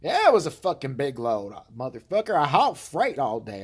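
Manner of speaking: brother's indignant voice. Retold or imitated. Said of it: "I'm like".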